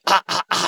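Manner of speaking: short, separate test "ah, ah, ah"; vocal warm-up "ah"s. Shown as a demonstration. Host showing the pre-recording morning routine, vocal warm-up. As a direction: demonstrate checking that the voice comes out. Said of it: "声を出してから".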